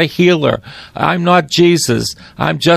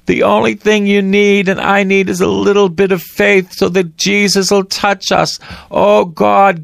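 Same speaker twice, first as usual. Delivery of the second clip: higher, pleading preacher's prayer; fervent prayer; 3 semitones higher than usual. Acted. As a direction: pray aloud with longing for Jesus. Fervent prayer to close broadcast.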